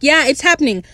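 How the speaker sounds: a touch of giddy celebration; excited cheer. Retold or imitated. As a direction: retell your own excitement, slightly lifted. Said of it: "I was very excited".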